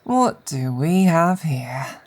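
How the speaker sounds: villain gloating over a caught spy; slow gloating. Acted. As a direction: take your time, relish it. Captor gloating over captive.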